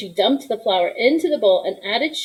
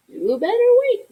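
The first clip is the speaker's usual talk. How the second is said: gentle warning; 14 semitones higher, 4 dB louder than usual. Acted. Grandma warns the boy.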